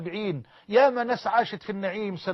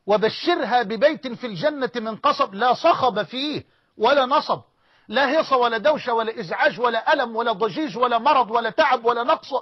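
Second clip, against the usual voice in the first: fervent preaching; 3 semitones higher, 4 dB louder than usual. Acted. Rising preaching climax on paradise.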